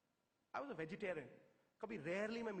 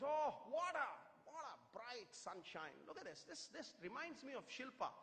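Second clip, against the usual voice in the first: put-on Jeffrey Boycott; 3 semitones higher than usual. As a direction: linger over the words in mock admiration. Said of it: "Jeffrey Boycott was killing me".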